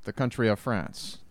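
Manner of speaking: mock Spaniard-style foreign accent; lightly faked foreign accent; fake French accent. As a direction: put on a hammy fake European accent. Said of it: "that was a fake accent".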